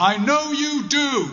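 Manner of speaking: put-on loud, very high-pitched, carrying call. Retelling the father calling after the speaker leaving the hospital ward: loud voice. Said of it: "in a loud voice".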